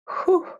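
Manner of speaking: short, high, soft exhale; real whew to hold back tears; emotional whew. Real, not acted. Circle leader fighting tears, emotional whew. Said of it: "hoping I wasn't gonna cry".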